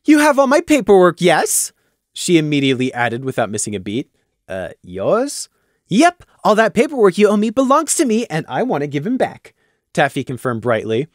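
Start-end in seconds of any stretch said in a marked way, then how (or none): 0.1-9.5 bubbly mayor. Acted. Taffy demands paperwork, high and bubbly. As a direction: rattle it off with cheerful nonsense.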